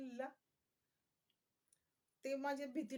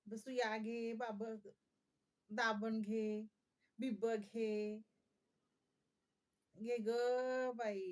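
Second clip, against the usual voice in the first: long, drawn-out street vendor's call; imitated hawker's cry; much slower than usual. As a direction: chant out your wares, stretching each word. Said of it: "अशा ओरडायच्या". (फेरीवालीसारखी लांबवलेली हाक)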